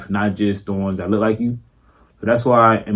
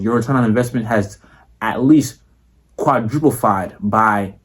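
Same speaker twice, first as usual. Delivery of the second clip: a hint of a formal investment pitch; lightly polished salesman addressing a client; mildly formal boardroom pitch, close to his own voice; proper business voice. Shown as a demonstration. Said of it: "not like how I'm talking right now".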